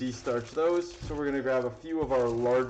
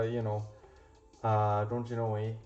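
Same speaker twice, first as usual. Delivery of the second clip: put-on lightly done Canadian accent, "don't you know, eh"; a half-hearted Canadian twang tacked onto the end; mock Canadian accent; 4 semitones lower than usual. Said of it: "that's my Canadian".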